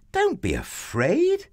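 put-on high, light boy's voice; young boy hero. A narrator's reading. David reassures the frightened soldiers, high boyish voice. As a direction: pitch it well up, offering courage.

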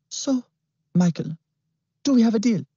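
high, silky sinister voice; smooth villain. A narrator's reading. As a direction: purr it with menace. Klimt voiced.

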